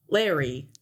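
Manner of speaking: low, flat deadpan Walken voice; deadpan the name low like Walken; Christopher Walken impression. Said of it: "my worst Christopher Walken impression".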